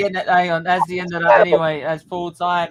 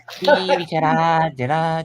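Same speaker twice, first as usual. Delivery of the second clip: drawn-out Scouse name-call; mock Scouse accent; slower than usual. Friend echoing the Scouse attempt at Steven Gerrard, mock Scouse. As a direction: imitate a Scouser, stretching the name slowly. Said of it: "attempt at a Scouse accent".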